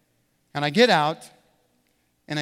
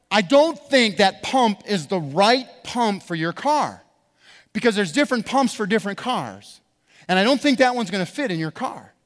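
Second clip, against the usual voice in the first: nicely explained; 2 semitones higher, 4 dB louder than usual. Retold or imitated. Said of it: "I said it so nicely".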